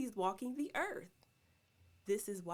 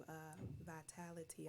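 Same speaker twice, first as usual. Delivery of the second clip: slurping from cup; 4 semitones lower, 11 dB quieter than usual. Real, not acted. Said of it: "I just slurped in the cup".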